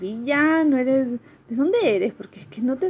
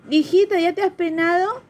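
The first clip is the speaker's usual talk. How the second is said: higher, Peruvian sing-song grandmother; 9 semitones higher, 4 dB louder than usual. Retold or imitated. Grandmother fussing over her granddaughter, Peruvian lilt. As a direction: coo it like a Peruvian granny. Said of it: "Dices, este".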